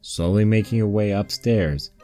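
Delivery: usual speaking voice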